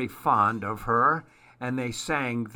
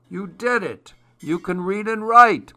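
excited grandpa; 8 semitones higher, 6 dB louder than usual. Acted. Grandpa congratulates the child.

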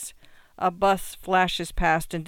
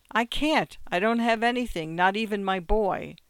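a husband pleading through tears, higher; crying; 3 semitones higher than usual. Acted. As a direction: pitch rising, voice near breaking. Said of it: "Stop crying".

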